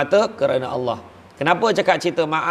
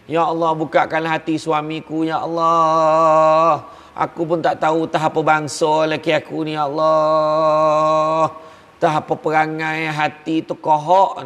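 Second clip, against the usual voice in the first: drawn-out, half-weeping plea to God; tearful wife's prayer; slower than usual. Retold or imitated. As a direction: stretch each ya Allah like a mock lament. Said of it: "hari-hari menangis". (doa isteri yang merintih dan menangis, ya Allah dipanjangkan)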